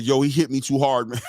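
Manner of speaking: mock whining, laughing through it; imitating a sore fighter, laughing; whiny complaint. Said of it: "walked out the ring with an attitude".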